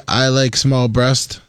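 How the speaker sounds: slow lightly mimicked delivery; imitating a celebrity. Shown as a demonstration. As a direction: say it like him, slowly. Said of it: "Can you say".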